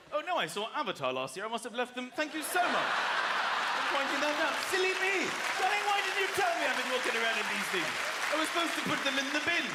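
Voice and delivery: airy, fast mock-posh voice; mock posh reply. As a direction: gush it like a flustered posh lady. Mock posh reply to glasses question.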